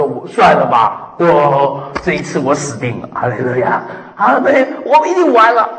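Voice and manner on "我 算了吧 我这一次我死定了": mock despair. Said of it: "然后就说".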